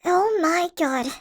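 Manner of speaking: drawn-out, slow disbelief; slow stunned gasp. Acted. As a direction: let the shock stretch out. Discovers the shrinking ray.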